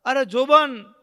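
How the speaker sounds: high, loud wailing cries for help; screaming in pain. Retold or imitated. Kadvi Kaki screaming in pain as charms bounce back. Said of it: "આમ ચીસો પાડે કડવી કાકી".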